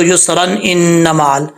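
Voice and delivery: युसरन linked straight into इन्ना मअल; joined reading. Shown as a demonstration. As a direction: sound the n of युसरन and carry on into इन्ना. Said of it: "मिला के पढ़ेंगे". (युसरन इन्ना मअल मिलाकर)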